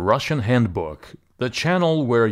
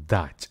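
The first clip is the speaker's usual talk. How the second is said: dat said as the stressed syllable; stressed last syllable; 5 semitones lower than usual. Shown as a demonstration. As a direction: hit dat as the stressed one. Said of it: "The stress here falls on the last syllable".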